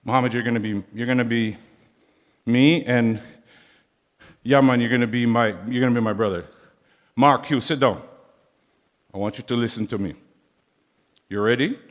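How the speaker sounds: a hint of a Jamaican uncle giving orders at a party; Jamaican accent. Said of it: "in this heavy Jamaican accent".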